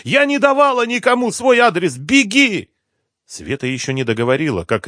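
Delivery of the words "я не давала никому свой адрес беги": a much higher, louder yell. A narrator's reading. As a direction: scream no in panic. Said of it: "заорала Света".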